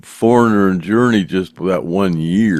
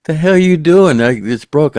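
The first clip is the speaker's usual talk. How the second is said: imitating his angry yell, higher and louder; retold shout; 8 semitones higher, 5 dB louder than usual. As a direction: play back the guitarist's alarmed outburst, pitched up. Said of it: "and he goes".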